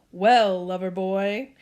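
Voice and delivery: loud teasing opener; teasing dad. Acted. Dad cracks up at lover boy Byron, teasing. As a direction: rib the boy with mock admiration.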